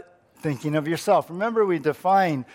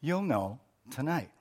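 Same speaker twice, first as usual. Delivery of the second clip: quick husband reply. Acted. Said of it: "husband answered quickly".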